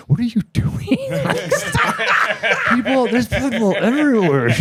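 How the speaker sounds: put-on giggling girlfriend quote; laughing through a quote. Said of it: "she looks at me and goes".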